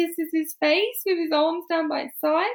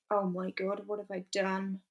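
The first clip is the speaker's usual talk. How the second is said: dawning horror; 8 semitones lower, 11 dB quieter than usual. Retold or imitated. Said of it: "the penny drops".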